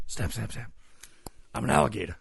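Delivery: playful alligator snaps, then a put-on voice; mock alligator snapping. Imitating the man who plays an alligator for his friends. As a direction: snap like a cartoon alligator. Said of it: "those are noises he made when he imitated".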